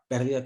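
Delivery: "Pérdida" stressed on PÉR; stress on first syllable. Shown as a demonstration. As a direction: put the accent on the E of "Pérdida". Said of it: "con acento en la E".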